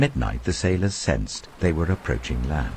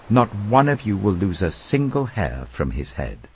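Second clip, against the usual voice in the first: higher, earnest pleading tone; urging; 4 semitones higher than usual. Acted. Paul urging hungry men to take food, higher earnest urging. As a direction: coax them to eat, keep it pressing. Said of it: "Paul urged them all to eat".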